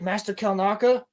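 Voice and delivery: high questioning call rising on Kalnaka; mock tentative call. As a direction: call out unsure into the room. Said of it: "She's like".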